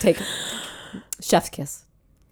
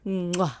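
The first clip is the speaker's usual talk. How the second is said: chef's kiss; 5 semitones lower, 11 dB quieter than usual. Shown as a demonstration. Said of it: "now do a Chef's Kiss".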